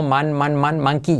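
MAN, man, man, building into MAN-ki; memory-trick pronunciation. Shown as a demonstration. Teacher giving a memory trick, monkey said as "man-kee". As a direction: repeat man, then monkey starting like "mano". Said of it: "con acordarte de mano".

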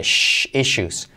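issues said "i-shus" with a drawn-out shh first; issues, the ss sounded as sh, shh held. Shown as a demonstration. Teacher drilling the sh sound in issues. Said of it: "con letra clave S H".

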